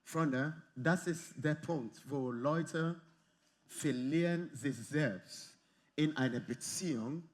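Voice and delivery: normal talking voice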